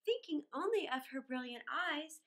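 lilting storybook reading; a children's storyteller reading verse; poem reading. A narrator's reading. Reads poem aloud.

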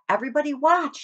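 a pig calling everyone to watch his leap; crying out. Acted. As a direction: call out to everyone before the jump. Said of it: "he cried".

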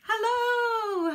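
high drawn-out greeting; singsong hello. Real, not acted. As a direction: sing out the hello.

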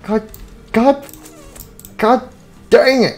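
high, loud wailing outcry; anguished yell. Acted. Pizza driver wailing over his wrecked van, high loud anguish. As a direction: wail it like the day is ruined.

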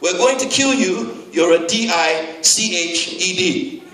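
slow, letter by letter; slow spelled-out threat. Retold or imitated. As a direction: read the letters out slowly. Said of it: "the end of the threat read".

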